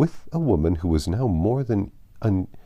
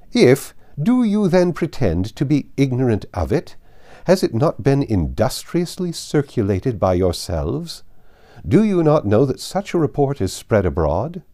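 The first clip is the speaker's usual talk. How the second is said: higher and louder, indignant questioning; outraged grand dame; 6 semitones higher, 5 dB louder than usual. Acted. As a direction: demand answers from above. Lady Catherine's outraged questions.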